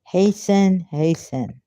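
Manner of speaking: English said with an Arabic accent. Real, not acted. Reciter says the prayer's closing words, Arabic accent. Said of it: "not supposed to say English in Arabic accent".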